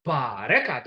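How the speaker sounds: "Bareka" with a rising tone. Shown as a demonstration. Teacher recapping the rising tone. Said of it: "the rising tone".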